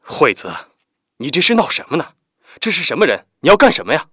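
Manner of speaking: feigned anger. Acted. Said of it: "装作生气地问他".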